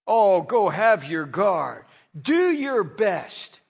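slow, sneering brush-off; mockingly. Pilate taunting the priests, slow mocking sneer. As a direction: drag it out with contempt. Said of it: "Pilate said mockingly".

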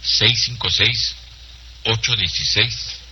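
drawn-out number groups with pauses; slow dictation. Real, not acted. Host repeats the number for note-takers, slowly. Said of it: "Se lo digo despacito".

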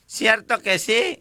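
high, slow plea for agreement; mock widow pleading. Widow begging the drunk to agree, mock lament. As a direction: coax a yes out of him, lightly lamenting.

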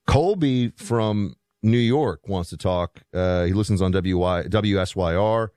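hoarse, worn-out voice. Real, not acted. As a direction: talk through a hoarse throat. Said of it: "voice seems to be, like, an octave deeper today".

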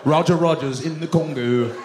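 drawn-out mock correspondent voice; news reporter sign-off. Reporter signs off from the Congo, solemn drawn-out delivery.

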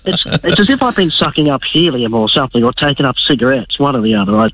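croaky sick voice; hoarse voice. Real, not acted. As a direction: voice rough from illness. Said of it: "you've got a bit of a cartoon voice there".

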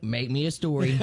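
giggling through the request; laughing while asking. Retold or imitated. Typing prompt into Chat GPT.

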